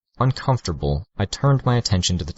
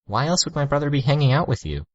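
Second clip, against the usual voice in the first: condescending, drawn out and higher; slow, talking down; 8 semitones higher than usual. A narrator's reading. Girl talks down to the narrator, slow and condescending. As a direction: spell it out as if to a slow child. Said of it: "slowly, like she was talking to someone".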